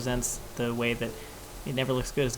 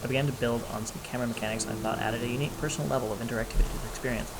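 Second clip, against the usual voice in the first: put-on New Zealand accent. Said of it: "using my bad New Zealand accent".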